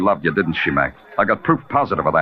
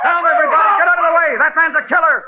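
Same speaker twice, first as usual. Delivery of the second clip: commanding shout; 3 dB louder, faster than usual. Acted. Detective clears the crowd.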